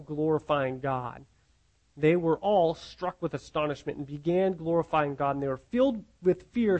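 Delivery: measured, emphatic Bible reading; scripture reading. Acted. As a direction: read the passage aloud, phrase by phrase. Reads the passage aloud.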